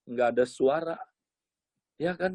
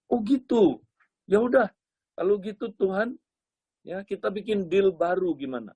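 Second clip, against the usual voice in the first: put-on eager bargaining young man; 5 semitones higher than usual.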